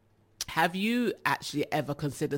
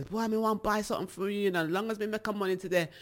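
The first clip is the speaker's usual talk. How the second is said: Jamaican patois; 3 semitones higher, faster than usual. Retold or imitated. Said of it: "draw people in ... and say".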